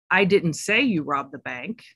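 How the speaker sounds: you said with weight; stress on you. Shown as a demonstration. Coach showing how meaning shifts, stress on you. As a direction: hit the word you. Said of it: "emphasize a different word each time".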